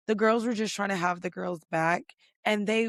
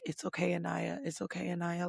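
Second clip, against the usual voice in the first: soothing comfort; 9 dB quieter than usual. Retold or imitated. Carl comforting crying Anaya.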